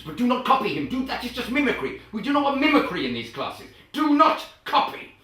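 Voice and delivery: high, loud, stressed NOT; indignant emphasis; emphatic insisting. Real, not acted. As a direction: drive home the word not. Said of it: "insisting, rising emphasis".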